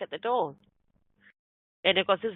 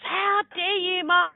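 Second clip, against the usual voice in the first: retold anger; 6 semitones higher than usual. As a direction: imitate an offended man telling someone off. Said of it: "this guy got really angry".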